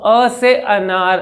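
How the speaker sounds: calm normal-speed demo. Shown as a demonstration. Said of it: "कितने आराम से बोल रहा हूँ, मेरी नॉर्मल स्पीड है".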